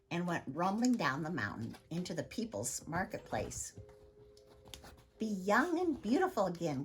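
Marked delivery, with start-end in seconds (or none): 5.2-6.8 louder market-crier call; crying out. Acted. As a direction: call out to the crowd like a peddler. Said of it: "cried Helga".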